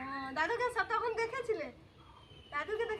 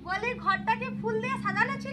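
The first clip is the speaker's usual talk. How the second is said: to someone hard of hearing; 3 dB louder than usual. Real, not acted. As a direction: repeat it louder for grandma. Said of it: "শুনতে পাওনি আমার কথা?".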